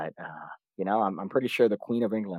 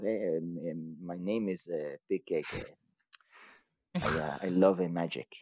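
put-on shy child learner; 3 semitones lower, 6 dB quieter than usual. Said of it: "I was".

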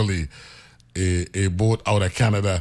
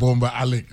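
Boumba Alec said whole and higher, AL stressed; both names pronounced; 4 semitones higher than usual. Shown as a demonstration. Teaching that you say both names, higher, with AL stressed. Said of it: "you say both names".

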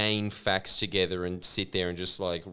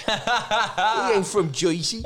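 higher, hammed-up New York Italian accent; 10 semitones higher, 4 dB louder than usual. Imitating Michael Parenti, hammed-up New York Italian accent. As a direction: play it like a tough-guy New York Italian. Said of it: "with his New York Italian accent going".

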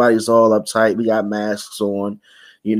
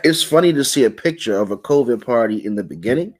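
telling it through chuckles; amused, with real laughs breaking in between phrases; laughing; 2 semitones higher than usual. Real, not acted. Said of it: "I'm, I'm laughing".

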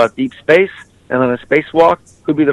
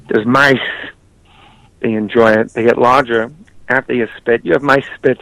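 Christopher Walken impression. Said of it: "Christopher Walken".

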